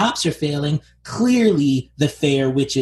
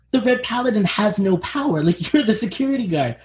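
higher-pitched indignant scolding; exasperated protest; 5 semitones higher than usual. Acted. Host telling off the security guard, exasperated. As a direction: argue with him in disbelief.

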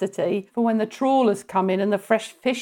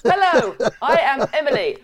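high loud announcement; 4 semitones higher, 4 dB louder than usual. Acted. Announces joke name with shriek.

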